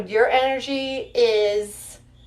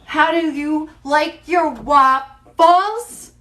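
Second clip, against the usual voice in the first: playful quizzing; 4 semitones higher, 3 dB louder, slower than usual. Pretend. Playful quiz to the voice.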